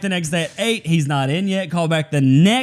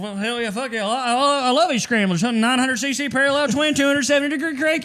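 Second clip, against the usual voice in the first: higher-pitched hyped bro; faking gearhead enthusiasm, voice pitched up; mock bro voice; 7 semitones higher than usual. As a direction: pump it up like a poser biker. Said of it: "I'm like".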